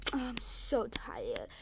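drawn-out, lightly acted weariness; pretend tired. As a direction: slowly play at being worn out. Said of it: "She like".

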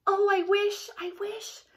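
a hint of a sob in the wish; choked with tears. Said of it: "so choked with tears".

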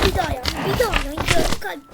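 fast, loud panic; panicked yell. Real, not acted. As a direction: blurt it out loud in alarm. Panicking during game.

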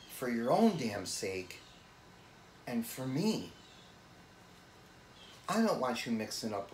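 earnest brotherly plea, rising in pitch on key phrases; dramatic monologue. Acted. Urging his brother away from Uncle Robbie, earnest dramatic plea. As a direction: press him to listen, leaning on key phrases between pauses. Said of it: "Dramatic monologue from show on the road".

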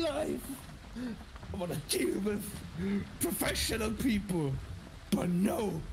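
exasperated. Real, not acted. Mock exasperated rant at friends.

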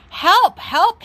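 high, loud call into the radio; urgent call for help. Acted. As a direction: sound the alarm. Policeman radios firemen urgently.

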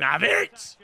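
short mock yell of a catchphrase; half-hearted demonstration scream, drawn out at the end. Shown as a demonstration. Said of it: "Just scream".

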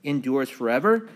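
emphatic liturgical recitation, rising and falling; psalm reading. Acted. Pastor opening Bible study with the introit, emphatic psalm reading. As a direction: read scripture out to the congregation in measured phrases.

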